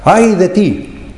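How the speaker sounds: high, slow, menacing "¡Ay de ti!"; threatening woe. Shown as a demonstration. Preacher acting a bystander threatening the drunkard, high and slow. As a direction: stretch it out as a threat. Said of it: "como si uno estuviera viendo al borracho y dijera".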